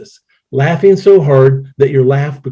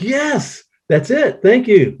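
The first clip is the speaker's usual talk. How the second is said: mock thanks; 9 semitones higher, much slower than usual. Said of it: "And I'm like".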